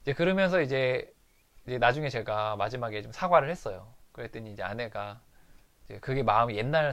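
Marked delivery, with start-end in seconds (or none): none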